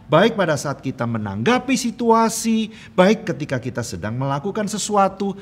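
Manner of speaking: loud, high-pitched preaching; khotbah berapi-api. Real, not acted. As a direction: drive the message home to the congregation. Preaches with rising force. (berkhotbah lantang dengan nada tinggi)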